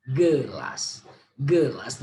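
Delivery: "Gelas" said as two clear syllables; syllable demo. Shown as a demonstration. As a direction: give both syllables of "Gelas". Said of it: "two syllables here".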